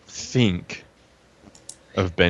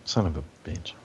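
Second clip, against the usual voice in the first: under-the-breath swear; muttered curse at a bad roll; whispered curse; 4 semitones lower, 10 dB quieter than usual. Real, not acted. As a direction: hiss it to yourself, annoyed. Frustrated after failed roll.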